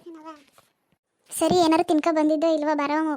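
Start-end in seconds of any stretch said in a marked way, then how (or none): 1.3-3.1 louder offer. Acted. Mother offering food to daughter.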